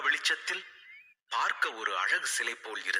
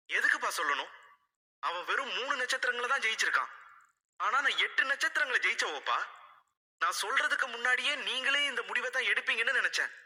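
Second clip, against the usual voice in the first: higher, fast, near tears; tearful; 11 semitones higher, faster than usual. A narrator's reading. Daughter pleading with father, on the verge of tears. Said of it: "என்றாள் அழுகை கலந்த குரலில்".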